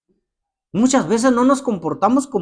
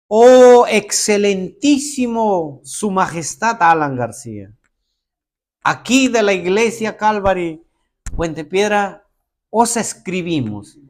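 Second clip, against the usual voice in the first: mock formal letter. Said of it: "¿Por qué escribes así?".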